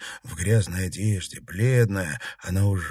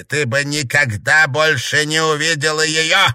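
higher, louder indignant retort; 4 semitones higher, 5 dB louder than usual. Acted. Best rebuts Matvey, loud indignant retort. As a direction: throw the accusation back at him.

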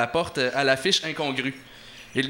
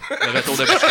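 much higher, hammed-up announcement; mock-grand proclamation; 12 semitones higher, 5 dB louder, faster than usual. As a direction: sell it like a big reveal. Joking announcement of special prize.

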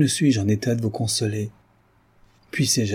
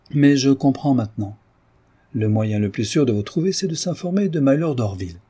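teasing, mocking; 3 semitones higher than usual. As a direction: needle her playfully. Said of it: "ce propos piquant". (dame moqueuse, voix plus haute et taquine)

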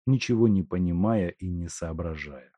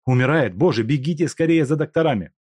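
alarmed; 7 semitones higher, 5 dB louder, faster than usual. Acted. Степанов в тревоге.

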